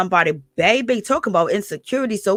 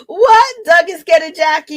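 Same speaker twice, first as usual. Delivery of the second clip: surprised; 7 semitones higher, 6 dB louder than usual. Real, not acted. Reacts to comment.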